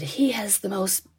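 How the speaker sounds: put-on doting Southern accent over a baby. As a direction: savor each word in a gentle Southern drawl. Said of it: "his accent was very endearing".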